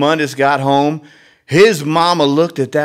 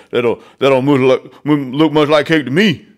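funny Alligator voice; 5 dB louder than usual. Acted. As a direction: drag it out like a lazy old alligator. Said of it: "Alligator's got a funny voice".

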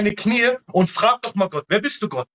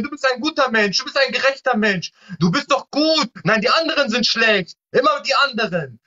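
higher, mock-sweet praise, hammed-up; ironic flattery; 5 semitones higher than usual. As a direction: play the crowd-pleaser who tells people they're good. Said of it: "das will doch der Mensch hören". (ironisch schmeichelnd, höher, gespielt süßlich)

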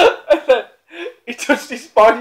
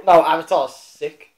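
No, Avatar's sick, lower, slow and firm; insistent; 3 semitones lower than usual. Real, not acted. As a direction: correct him flatly, no argument. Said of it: "I heard it was wank".

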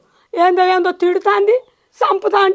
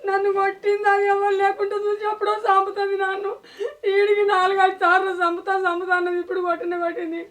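tearful plaint; crying complaint. Acted. Mother-in-law complains to her son, crying. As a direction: sob it out to the son. Old woman weeping complaint.

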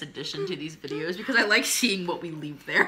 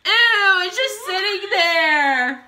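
disgusted; 10 semitones higher, 12 dB louder, much slower than usual. Real, not acted. Disgust at candy.

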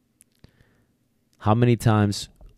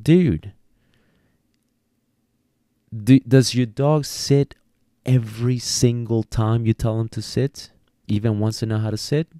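exasperated trainer; 3 semitones higher than usual. Retold or imitated. Trainer challenging a discouraged handler, incredulous. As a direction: push back on the owner, incredulous. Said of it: "I'm like".

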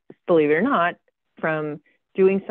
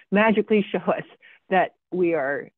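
sarcastic, pitched up in mock wonder; 3 semitones higher than usual. Real, not acted. Presenter repeating the team's naive hope for clusters, sarcastic. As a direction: lift the pitch and make the magic sound doubtful. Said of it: "you can hear from my sarcasm".

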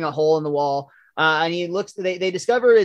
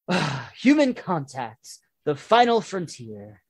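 Comic Book Guy; slower than usual. Acted. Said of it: "comic book guy is still".

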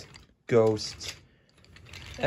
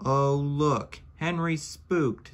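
high, louder teasing voice; teasing freight car; 6 semitones higher, 3 dB louder than usual. A narrator's reading. Freight car mocking Henry, teasing. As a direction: taunt him like a cheeky wagon. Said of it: "said a freight car".

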